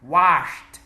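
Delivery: "Washed" loud, ending in a T, washt. Shown as a demonstration. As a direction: say "Washed" with a crisp voiceless ending. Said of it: "Now I say and you repeat".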